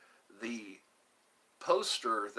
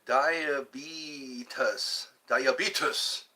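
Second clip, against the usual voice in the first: Greek-sounding; much slower than usual. Pretend. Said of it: "That sounds Greek".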